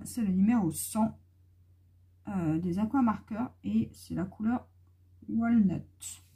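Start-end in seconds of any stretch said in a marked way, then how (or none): 5.3-6.2 French accent. Real, not acted. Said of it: "Mon accent, hein".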